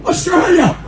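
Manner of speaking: high, emphatic burst on Australia!; outraged exclamation. Real, not acted. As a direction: throw the word out in disbelief.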